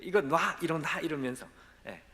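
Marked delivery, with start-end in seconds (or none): 0.0-1.0 pushing away. Retold or imitated. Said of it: "그냥 그걸 막 뿌리치기 시작했대요".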